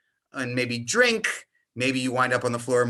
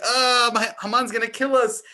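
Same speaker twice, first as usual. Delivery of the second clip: panicked Mordecai; 7 semitones higher, 5 dB louder than usual. Retold or imitated. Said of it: "And he's like".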